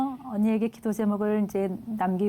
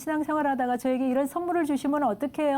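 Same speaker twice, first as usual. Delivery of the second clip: higher, mild complaining plea to God; lamenting prayer; 4 semitones higher than usual. Retold or imitated. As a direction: pour out grievances, tearfully but understated. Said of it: "넋두리도 하면서". (하나님께 넋두리하듯 호소)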